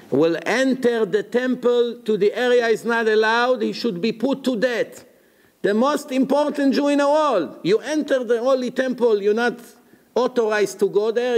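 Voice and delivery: high-pitched, insistent exclamation; impassioned argument. Retold or imitated. Impassioned retelling of Akiva's argument.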